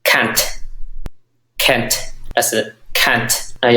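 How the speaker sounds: can't said as kʰan, open a; British pronunciation of can't. Shown as a demonstration. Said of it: "nhắc nó chị bên nhảy thì".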